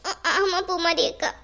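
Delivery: slow, halting sobbed answer; tearful admission. Acted. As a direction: confess haltingly through sobs. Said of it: "எதுக்கு அழுற".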